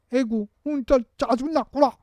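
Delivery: high, sympathetic echo of the feeling; mirroring sympathy. Shown as a demonstration. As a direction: mirror the child's upset back gently. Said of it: "이렇게 해주는 거". (공감하며 따라 해주는 말투)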